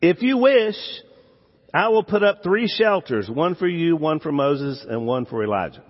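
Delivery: an eager, nervous Peter blurting out an offer; Peter's nervous offer. Retold or imitated. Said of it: "that's what he says".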